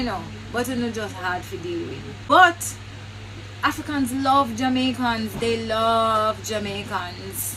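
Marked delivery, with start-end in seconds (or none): 2.3-7.6 emphatic loud insistence. Real, not acted. Vlogger insisting to viewers that Africans love them, loud and high. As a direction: voice jumps up, loud and high, driving it home.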